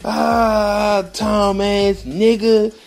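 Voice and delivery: high, drawn-out jeering laughter; cracking up. Retold or imitated. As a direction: imitate a crowd heckling through laughter. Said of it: "They cracking the fuck up".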